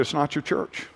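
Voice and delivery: softly and gently reassuring; calm correction said softly; soft, gentle and patient; kindly. Retold or imitated. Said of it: "I just kindly said to her".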